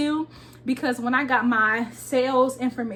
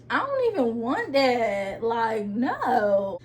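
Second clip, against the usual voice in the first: flat refusal; much slower than usual. Retold or imitated. Refusing the salesman's offer.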